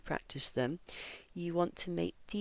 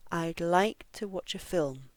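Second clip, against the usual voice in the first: "like" and "film" stretched, "to watch a" squeezed quicker; stress on LIKE, FILM. Shown as a demonstration. Teacher shows the rhythm, stress on "like" and "film". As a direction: keep the beat on "like" and "film". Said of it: "these three words are spoken more quickly".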